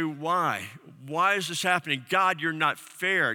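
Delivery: lightly voiced protest at God, slowed down; a hint of a hurting believer crying out; anguished crying out. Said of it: "crying out and saying".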